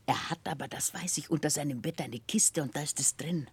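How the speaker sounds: whispered secret; hushed gossip about the hidden chest; confiding whisper. Acted. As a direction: whisper it so Barkis can't hear. Secret about Barkis's money chest.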